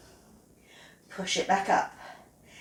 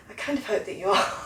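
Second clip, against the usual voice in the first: laughing; 2 semitones lower, faster than usual. Real, not acted. Laughs at own joke.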